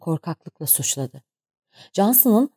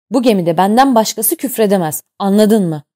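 loud stern captain's rebuke; angry captain; 3 semitones higher, 7 dB louder than usual. A narrator's reading. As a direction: lay down the law furiously. Captain scolds the crew. (kaptan tayfayı azarlıyor, öfkeli ve yüksek sesle)

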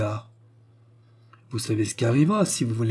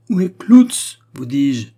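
much louder, high-pitched insistence; impatient loud demand; 4 semitones higher, 11 dB louder, slower than usual. A narrator's reading. Steward repeating his ignored question to the pastor's household, loudly impatient. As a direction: repeat it forcefully, losing patience.

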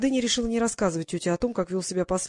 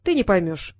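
decisive; 2 semitones lower, 3 dB louder than usual. Acted. Duchess refusing to explain to her niece, decisive. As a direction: close the matter firmly. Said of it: "решительно ответила та".

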